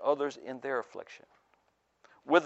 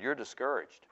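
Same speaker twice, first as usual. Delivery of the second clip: whispered; 8 dB quieter than usual. A narrator's reading.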